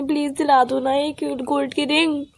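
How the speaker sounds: soft, slow, drawn-out plea; pleading. Acted. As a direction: coax him gently, dragging the words. Begging boyfriend for a ring. (धीमी, खिंची हुई मिन्नत)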